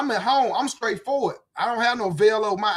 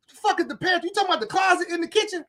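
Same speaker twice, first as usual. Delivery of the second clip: baffled disbelief; 8 semitones higher, faster than usual. Retold or imitated. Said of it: "And I'm like".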